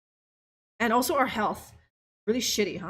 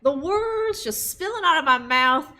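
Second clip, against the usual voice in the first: a light, slow Wild West drawl; lightly put-on cowboy Wild West accent; 3 dB louder, slower than usual. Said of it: "your attempt at the old Wild West accent".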